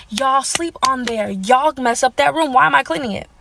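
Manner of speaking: slow, drawn-out exasperation; retold fed-up pushback; exasperated protest. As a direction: spell out the complaint slowly, word by word. Acting out protest to mom and boyfriend.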